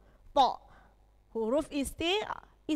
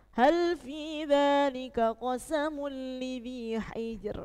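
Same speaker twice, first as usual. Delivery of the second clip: slow chanted recitation of Al-Fajr; Quran recitation; slower than usual. Shown as a demonstration. Teacher reciting Al-Fajr verses to the class, slow chant. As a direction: recite slowly, ro heavy. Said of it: "itu bedanya".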